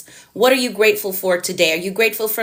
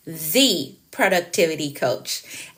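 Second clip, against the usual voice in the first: slow, "The" set apart as a long "thee"; stress on THE; 4 semitones lower, 3 dB quieter, slower than usual. Shown as a demonstration. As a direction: say "The", pause, then the name. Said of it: "make an emphasis on the".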